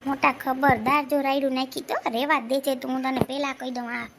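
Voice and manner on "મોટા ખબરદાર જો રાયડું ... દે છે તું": sharp, loud warning shot; stern warning. Acted. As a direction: warn him off, firmly and louder. Family quarrel, stern warning.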